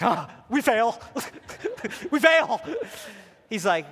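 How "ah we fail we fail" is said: laughing. Real, not acted. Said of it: "I'm like".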